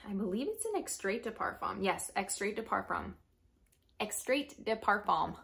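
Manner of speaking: talking around braces; lisping through new braces. Real, not acted. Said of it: "I have braces and it makes me talk weird".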